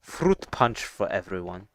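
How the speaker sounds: lightly imitated German text-to-speech voice; a hint of a German robot announcer. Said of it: "the German English text-to-speech guy".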